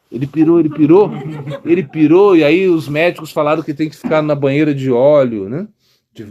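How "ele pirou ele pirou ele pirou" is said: mother laughing while she tells it. Retold or imitated. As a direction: laugh through the words, half amused. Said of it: "Ela falou". (mãe rindo enquanto conta)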